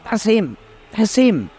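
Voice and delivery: high, eager shouting; excited yell. A narrator's reading. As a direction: point and shout in delight. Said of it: "yelled Ron".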